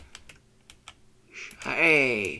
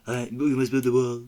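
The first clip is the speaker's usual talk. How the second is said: put-on Donald Trump accent; 4 dB louder than usual. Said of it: "There's a very bad Donald Trump accent".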